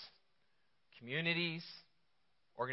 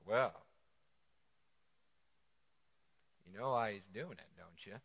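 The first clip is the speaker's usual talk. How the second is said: conspiratorial hush; 7 semitones lower, 6 dB quieter than usual. Retold or imitated. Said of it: "They're like".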